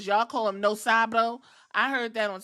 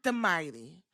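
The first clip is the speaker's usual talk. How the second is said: retold astonishment; 3 semitones lower, 4 dB louder than usual. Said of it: "And they said".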